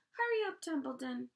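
very high loud urging; urgent pig. A narrator's reading. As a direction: push him, very high. Wilbur urging the rat.

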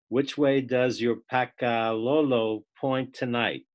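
measured poetry recitation with lingering names; poem reading. Acted. Student reads a parody poem to the class, measured recitation. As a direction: read it as verse, line by line with pauses.

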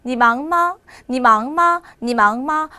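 brisk conversational 你忙吗, 忙 still rising; natural-speed drill of 你忙吗; quick, tones intact. Shown as a demonstration. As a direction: rattle off 你忙吗 without losing the tones. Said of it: "빨리 이야기하지만 그 안에 성조는 있습니다".

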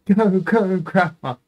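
high, loud cheer for Grandma; root for her like a fan. Real, not acted.

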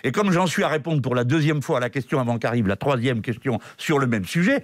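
short of breath behind a mask; breathless, muffled through a mask. Real, not acted. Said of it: "le souffle court".

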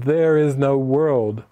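"There is no world" drawn out slowly, each word stressed; exclaimed emphatically. Retold or imitated. Upset friend quoting Jesus back, slow and emphatic. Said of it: "Exclamation point".

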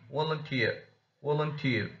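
strong last syllable in "volunteer"; stressed suffix. Shown as a demonstration. Teacher shows suffix rule, volunteer stressed on last syllable. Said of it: "suffixes will only receive the stress".

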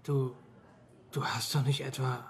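hushed suspicious whisper. Acted. Colleague whispers his suspicion to Horst, hushed. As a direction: drop to a whisper, half afraid to ask. Colleague suspects him of a beating.

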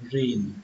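"rìn" closed firmly on n; "rìn" with a clear final n; ending on n. Shown as a demonstration. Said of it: "Kết thúc bằng âm n".

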